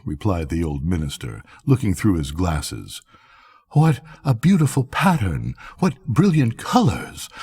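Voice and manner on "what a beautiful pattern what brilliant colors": mock admiration. Minister feigns admiration.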